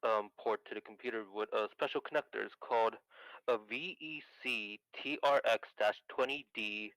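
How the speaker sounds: thin, crackly telephone voice; carbon mic. Real, not acted. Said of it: "you do sound like a phone".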